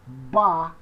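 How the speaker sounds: "Ba" as one clear, held syllable; pronunciation demo. Shown as a demonstration. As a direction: sound out "Ba" for learners. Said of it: "Como é que se pronuncia?".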